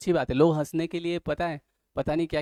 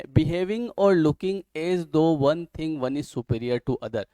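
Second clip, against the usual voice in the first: slow dictation; much slower than usual. Acted. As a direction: spell it out slowly so students can write. Dictating a definition.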